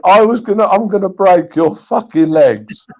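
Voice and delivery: mock threat, slowing as it goes; half-yelled imitation of a threat; retold yell. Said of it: "then yelled in Malcolm's face".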